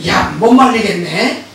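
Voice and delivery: exasperated demon. Retold or imitated. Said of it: "그러니까 귀신이".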